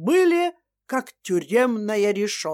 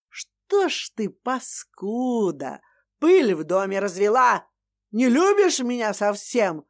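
ор на ухо. Acted. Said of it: "заорала на ухо".

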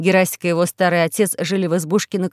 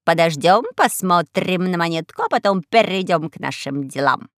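raspy cawing crow. Acted. Crow character voice.

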